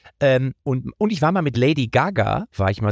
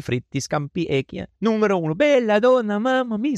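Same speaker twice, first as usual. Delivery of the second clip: hammed-up fake Italian, climbing higher toward the end; mock Italian gibberish; 6 semitones higher than usual. Comedian parodying Italian TV persona with mock Italian accent, rising higher. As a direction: rattle off Italian food words like a caricature Italian. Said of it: "Luca Toni".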